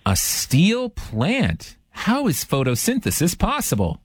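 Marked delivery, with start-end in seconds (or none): 0.0-1.8 slow drawn-out disbelieving question; incredulous. Real, not acted. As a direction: stretch it out, doubting the steel. Host repeats job in disbelief.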